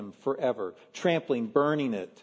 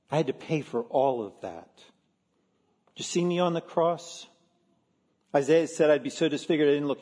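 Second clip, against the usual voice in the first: darker resentful tone. Pretend. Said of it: "something a little more dark".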